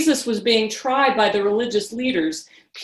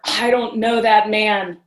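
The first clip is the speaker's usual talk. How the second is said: a louder, slower, heated denial; angry denial; 5 dB louder, slower than usual. Acted. Peter denying Jesus to the crowd, angry. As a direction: Peter snaps back in anger. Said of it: "Then Peter got very angry".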